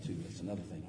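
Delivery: usual speaking voice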